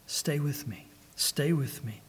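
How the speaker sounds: soft, gentle plea to stay; hushed reassurance. Acted. Preacher remembering the controller's voice that brought him home, hushed and reassuring. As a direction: recall the guiding voice softly, as reassurance. Recalling the guiding voice, tenderly.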